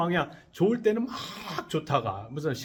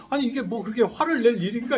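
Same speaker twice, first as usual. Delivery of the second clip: indignant inner thought; 6 semitones higher, 4 dB louder, faster than usual. Retold or imitated. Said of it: "이런 생각이 들면서".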